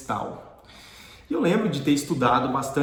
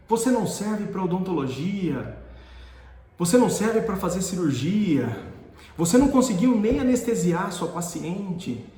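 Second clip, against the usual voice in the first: raised, insistent professor's reprimand; acting out a harsh professor's dressing-down; retold scolding; 6 semitones higher than usual. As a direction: berate the student point by point. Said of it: "ele começou a falar um monte".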